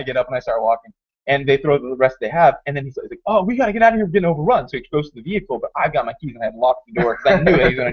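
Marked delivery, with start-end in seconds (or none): 3.3-4.7 higher, hurried-sounding alarm; retold panic. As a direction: imitate a player about to flee. Retold panic while fleeing zombies.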